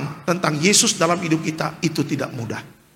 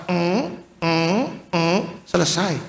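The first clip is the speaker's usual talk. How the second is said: mimicked last breaths; slower than usual. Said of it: "Tiga kali tarik nafas".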